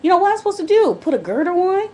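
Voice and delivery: high, loud indignant outburst; retold anger. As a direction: fire back in outrage. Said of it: "I was so angry with him".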